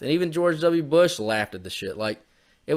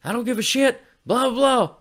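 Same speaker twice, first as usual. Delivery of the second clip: Bush's careless reply; 11 semitones higher than usual. Retold or imitated. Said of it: "and he's like".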